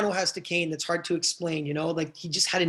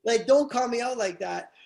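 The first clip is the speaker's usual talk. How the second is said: teary laughing exclamation; 5 semitones higher, 3 dB louder, slower than usual. Retold or imitated. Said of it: "And I'm like".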